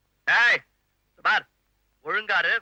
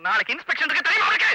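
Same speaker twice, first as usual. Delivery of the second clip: angry scold; 4 semitones higher than usual. Acted. Scolding child over school records.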